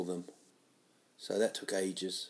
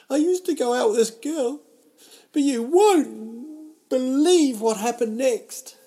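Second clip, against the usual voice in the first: much higher, much louder, hammed-up teaser voice; clickbait announcer; 11 dB louder than usual. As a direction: sell it like a cheesy viral headline, slowing on the hook. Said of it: "I'm like live clickbait".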